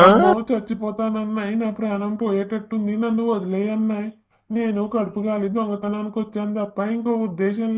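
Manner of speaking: yelping in pain, begging to stop; pained pleading. Acted. Thief begs the husband while being beaten, pained cry. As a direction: cry out under the blows, then beg.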